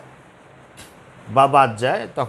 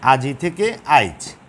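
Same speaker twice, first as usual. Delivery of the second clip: slow demo; slower than usual. Shown as a demonstration. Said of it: "আমি বললাম যে আজি".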